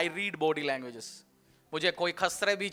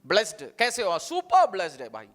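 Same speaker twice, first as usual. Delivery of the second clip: cheerful declaration. Shown as a demonstration. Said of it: "आप declare करो".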